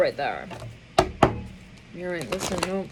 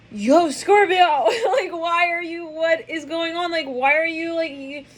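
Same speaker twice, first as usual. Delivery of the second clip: grab their attention, half-laughing; excited call-out; 8 semitones higher than usual. Retold or imitated. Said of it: "They're like".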